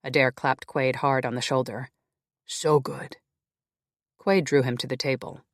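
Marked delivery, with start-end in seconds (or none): 2.5-3.2 whispered, moved by the reunion; choked whisper. Acted. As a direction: breathe it out in a whisper. Brothers reunited, hushed emotion.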